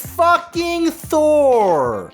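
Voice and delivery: high, drawn-out hype shout; exclaimed reveal. Pretend. Reviewer revealing they captured Thor, long shouted exclamation. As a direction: stretch the name into a big, high holler.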